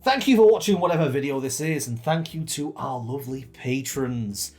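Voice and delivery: big announcer delivery, stretching the words; game announcer voice. Pretend. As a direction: read it like a game show host. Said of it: "Why am I saying it like this?".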